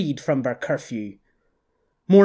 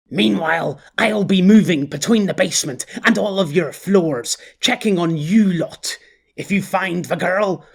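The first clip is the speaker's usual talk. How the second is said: cocky boss; 4 semitones higher than usual. Acted. Quiddell giving orders.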